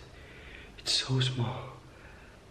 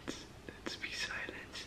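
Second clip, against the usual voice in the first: whispering; 13 dB quieter than usual. Real, not acted. Hiding, keeping silent.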